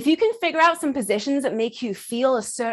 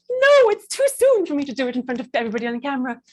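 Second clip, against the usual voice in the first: playful put-on reluctant wail; mock protest; 2 semitones higher than usual. Imagined volunteer refusing to perform on camera, mock protest. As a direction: balk in mock dismay. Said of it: "some people will be like".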